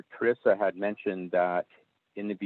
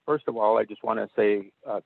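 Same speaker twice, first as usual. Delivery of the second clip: phone-line voice, thin and narrow; over the phone; 2 semitones higher than usual. Real, not acted. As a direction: speak as if through a phone call. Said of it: "I'm on the phone".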